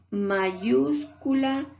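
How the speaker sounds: slow, stretched mayúscula with a long final a; drawn-out mayúscula. Shown as a demonstration. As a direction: say "mayúscula" slowly, holding the last a. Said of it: "Fíjate, ... la regla". (mayúscula alargada y lenta)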